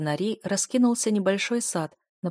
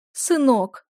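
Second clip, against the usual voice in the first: higher, louder sobbing cry; wailing; 6 semitones higher, 6 dB louder than usual. A narrator's reading. Duchess hugging Eliot, wailing. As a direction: bawl it out while hugging him. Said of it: "заревела хозяйка дома".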